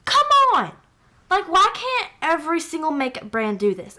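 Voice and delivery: high, thrilled outcry; gush, almost pleading with brands; worked up over shimmer shades. Real, not acted. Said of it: "getting a little bit worked up".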